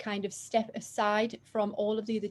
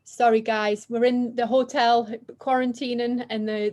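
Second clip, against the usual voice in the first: raised voice over a ringing alarm; shouting over fire alarm; 7 dB louder than usual. Real, not acted. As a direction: talk loud above the alarm noise. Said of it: "the fire alarm's going off".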